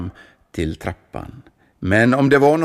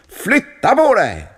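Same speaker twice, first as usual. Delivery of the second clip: rough voice; 13 semitones higher, 7 dB louder than usual. A narrator's reading. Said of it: "sa han med grov röst".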